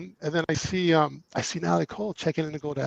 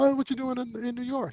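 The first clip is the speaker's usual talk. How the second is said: New York guy; 8 semitones higher, 6 dB quieter than usual. Retold or imitated. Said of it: "He's a total New Yorker".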